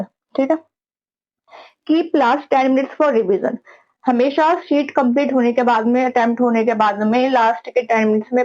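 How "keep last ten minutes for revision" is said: each word spaced out slowly like a heading; deliberate slow heading read; slow dictation. Shown as a demonstration. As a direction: dictate it slowly so students can write. Teacher dictates a tip heading.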